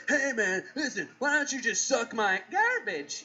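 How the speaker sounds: lightly acted movie tough talk with dubbed word; mock TV-edit overdub; badly dubbed movie line. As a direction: act out a clumsily censored film line. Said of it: "put in somebody else's voice".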